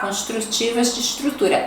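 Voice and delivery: Construtivas de estrutura with estrutura as eshtrutura; hissed s. Shown as a demonstration. Teacher repeating the clip: estrutura with a hissed s. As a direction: give estrutura a sh sound. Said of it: "o S também é chiado".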